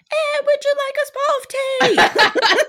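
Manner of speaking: shrieked, hammed-up English accent; screamed English accent. Showing off a good old English accent, screamed British. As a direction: scream it high in terrible fake British. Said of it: "only works if you're screaming it".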